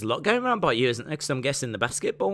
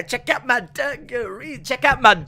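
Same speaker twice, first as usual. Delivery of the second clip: showing off, louder; 10 semitones higher, 5 dB louder than usual. Retold or imitated. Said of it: "I'd be like".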